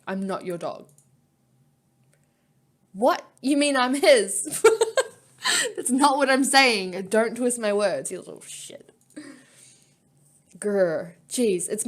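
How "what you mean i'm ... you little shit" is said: louder, laughing through the words; laughing protest. Acted. Heroine laughing as she protests to Chrome. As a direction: giggle while denying it.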